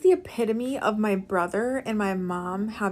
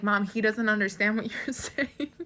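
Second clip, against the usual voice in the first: words breaking into a real laugh near the end; giggling explanation to mom; laughing through it. Real, not acted. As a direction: explain it while cracking up. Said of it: "And I'm laughing".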